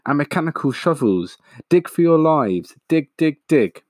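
high, urgent shouted orders. A narrator's reading. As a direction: urge them on with a rising cry. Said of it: "shouted Mister Fox".

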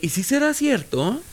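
high, slow Aguascalientes sing-song; hidrocálido accent. Acted. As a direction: draw it out high in an Aguascalientes lilt. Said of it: "el acento hidrocálido".

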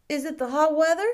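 put-on a curious small boy, bright and keen; little boy asking. A narrator's reading. Boy asks the shopkeeper about marquises, high and eager.

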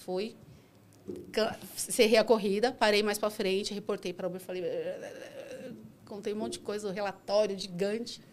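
ordinary delivery

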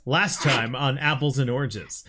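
trailer announcer read. Shown as a demonstration. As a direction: say it like a TV recap intro. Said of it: "Announcer voice".

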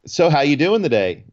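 a touch of the chirpy flight attendant; super happy flight attendant. Retold or imitated. Retelling the flight attendant's question, mildly chirpy. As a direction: lightly mimic a cheery cabin greeting. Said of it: "I get this super happy".

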